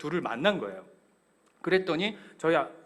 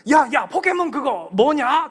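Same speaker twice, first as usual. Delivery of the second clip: put-on high, loud eager child call; excited kid; 10 semitones higher, 11 dB louder, slower than usual. Son running to the friend with the Pokémon card. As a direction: rush over excited.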